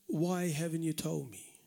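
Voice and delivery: soft, hushed reproachful question; imitated whisper. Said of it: "if he whispers to you".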